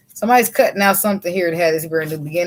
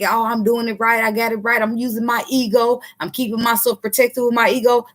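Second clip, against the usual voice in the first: higher-pitched mock self-assured voice; imitated self-justification; 4 semitones higher than usual. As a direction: mimic someone insisting they've got it right. Mimics masculine's self-justifying thoughts.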